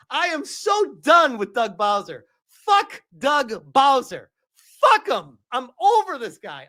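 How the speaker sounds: loud, high furious venting; angry rant. Real, not acted. Streamer raging at Nintendo's president, furious shout. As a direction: spit out real outrage at the boss.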